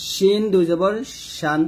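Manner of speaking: শিন and শান with a clear sh; tongue middle to palate for শান; full hushing sh in শিন; palatal shin. Shown as a demonstration. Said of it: "তালুর সঙ্গে লাগিয়ে আমরা উচ্চারণ করব".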